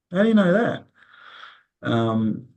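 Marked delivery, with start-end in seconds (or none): 0.1-0.8 stunned, asking how he could possibly know; astonished question. Retold or imitated. To the elder who foretold the cyclone, high astonished disbelief. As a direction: pitch leaps high and a little louder, retelling his own amazement.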